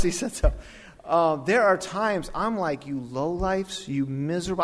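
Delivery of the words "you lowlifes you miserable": mock angry rebuke. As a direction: stretch out the insults in mild indignation. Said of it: "there's time I am angry".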